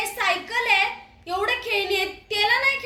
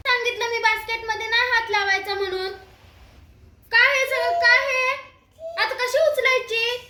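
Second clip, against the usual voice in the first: scolding; 4 semitones higher than usual. Real, not acted. Scolding the dog over spilled powder.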